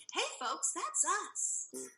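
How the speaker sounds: lightly imitating someone's polite phone voice; mock telephone voice. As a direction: tease with a put-on public sign-off. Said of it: "That was your telephone voice".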